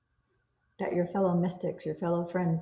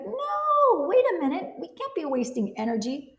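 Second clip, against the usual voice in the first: alarmed self-talk; 11 semitones higher than usual. Retold or imitated. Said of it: "I'm like".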